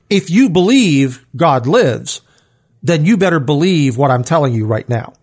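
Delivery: throwing down. Acted. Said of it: "he's throwing down on Elijah saying".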